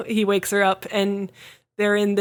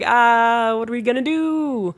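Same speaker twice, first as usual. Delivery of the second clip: mock distress; 2 semitones higher than usual. Retelling girl's distress.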